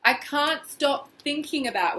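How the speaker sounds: loud anguished groan into slow words; groaning distress. Shown as a demonstration. Tapping coach demonstrating feeling awful, a loud anguished groan. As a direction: groan it out, heavy and miserable. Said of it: "make a sound like".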